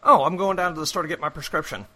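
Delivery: quick, brisk upstate New York accent. Shown as a demonstration. Asked how a New Yorker says it, quick New York accent. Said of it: "how would a New Yorker say it?".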